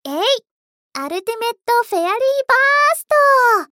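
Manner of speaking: fast, loud finishing move shout; screaming attack name. Pretend. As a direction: belt out the special attack name. Final attack in hero play.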